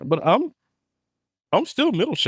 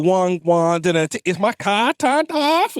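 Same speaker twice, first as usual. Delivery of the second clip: put-on Jamaican-Boston accent. Host imitating Boston-raised friend, mixed Jamaican-Boston accent. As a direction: slip from mock Jamaican into Boston. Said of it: "Jamaican and he Boston".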